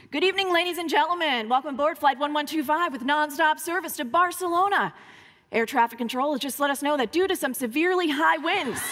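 pilot over the PA; airline captain announcement. Retold or imitated. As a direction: read it like a captain's cabin announcement. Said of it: "the captain came over the loudspeaker".

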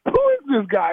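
calling out the player on tape; coach yelling at film. Retold or imitated. Coach to team in film room, mock yelling. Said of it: "he just kept going".

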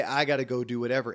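quick, mildly weary grumble; oh-my-goodness burden. Shown as a demonstration. Podcast host demonstrating the tone of obligation, mildly burdened. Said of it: "it's got this, "Oh my goodness," feeling to it".

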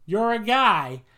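mock distracted wrestler. Imagined wrestler at the ropes calling to an interferer, mock shout. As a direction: call out like a wrestler spotting someone. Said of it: "walk to the ropes and be like".

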